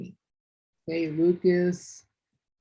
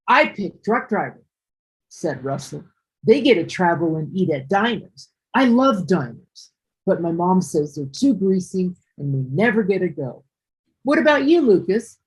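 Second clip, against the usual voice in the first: expressive reading. Shown as a demonstration. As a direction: make clear who is saying what. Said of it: "this is the way it should be read".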